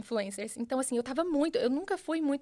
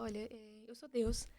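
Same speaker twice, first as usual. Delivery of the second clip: softer, calm and gentle; God's gentle voice; 4 dB quieter than usual. Retold or imitated. God explaining to her, soft and calm. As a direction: speak calmly like a loving father. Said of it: "E ele falou".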